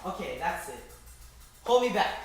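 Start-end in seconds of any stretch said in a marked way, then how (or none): 1.6-2.2 higher, louder hammed-up fury; mock angry. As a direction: hold me back. Mock fight begins.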